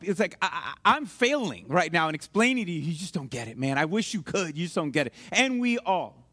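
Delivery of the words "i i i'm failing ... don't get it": low, acted exasperation; frustrated. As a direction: sink lower into helpless frustration. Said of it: "you've been frustrated when you're like".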